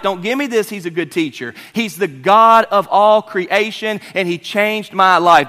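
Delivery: forceful, loud, stretched-out proclamation; Bartimaeus testifying. Acted. Healed blind man rejecting mere teacher talk, forceful. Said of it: "That was Bartimaeus' testimony".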